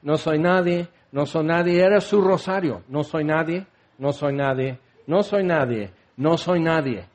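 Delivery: low-key, repetitive droning lament; monotone self-pitying refrain; rote litany. Acted. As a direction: recite it like a worn rosary. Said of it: "su letanía, por decir".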